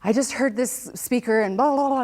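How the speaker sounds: imitating her excited mom; mom's excitement. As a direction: gush like an excited mother. Mom excitedly calling about speaker.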